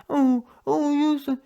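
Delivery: mock whining manager. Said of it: "He was whining".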